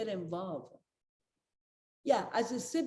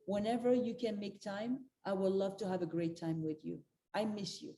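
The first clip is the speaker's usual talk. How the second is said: gentle loving words. Shown as a demonstration. Grandmother showing a partner how to ask, tenderly. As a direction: plant a gentle seed of love. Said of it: "That's what I say".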